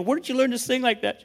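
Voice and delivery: high-pitched amazed question, reenacted; retold astonishment. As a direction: act out your amazement with a laugh in it. Retells his astonishment at daughter's singing.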